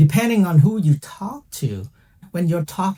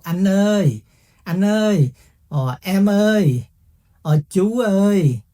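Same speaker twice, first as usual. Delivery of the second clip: calling out; 5 semitones higher than usual. Retold or imitated. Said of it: "So they might call you".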